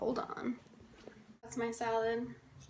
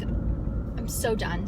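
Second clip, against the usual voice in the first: very slow, drawn-out weary sigh of a line; exhausted and exasperated, dragging it out; fed up; 4 semitones lower, much slower than usual. Real, not acted. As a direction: let the words drag, totally done. Frustrated after failed class search.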